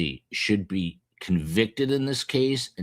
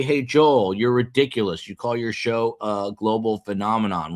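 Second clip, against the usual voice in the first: lightly voiced teasing viewer, higher; mock critic voice; 3 semitones higher than usual. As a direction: play a sneering heckler, higher pitched. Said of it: "You say".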